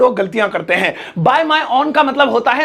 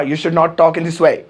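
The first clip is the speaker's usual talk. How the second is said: polished businessman English; 6 semitones lower, slower than usual. Retold or imitated. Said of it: "अब मैं बोलूंगा".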